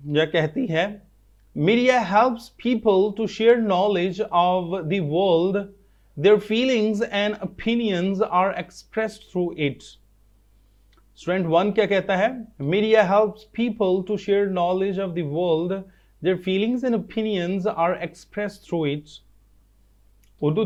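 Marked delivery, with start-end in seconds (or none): 1.6-9.8 very slow, word by word reading aloud; slow dictation reading. Shown as a demonstration. Teacher reading textbook line to students, slow and careful. 12.6-19.0 very slow, word by word reading aloud; slow dictation reading. Shown as a demonstration. Teacher reading textbook line to students, slow and careful.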